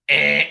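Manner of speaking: loud, flat buzzer noise; wrong-answer buzzer. Acted. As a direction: blare a short 'wrong' buzz.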